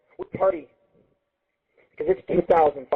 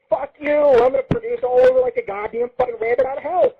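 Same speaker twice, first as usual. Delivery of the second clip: higher, louder defiant outburst; defiant rant; 9 semitones higher, 4 dB louder than usual. Real, not acted. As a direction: yell it back at the haters. Ranting at listeners who hate kids.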